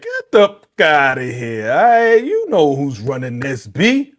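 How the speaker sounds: slow, punchy New York tough talk; New York style. Retold or imitated. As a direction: lay down the law slowly, New York style. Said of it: "That's how she did it New York style".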